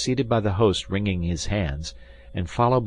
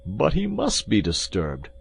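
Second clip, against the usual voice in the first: raised, agitated host's cry; 3 semitones higher than usual. A narrator's reading. Host protests to his guest about the disturbance, crying out. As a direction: cry it out as a flustered innkeeper. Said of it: "cried the host".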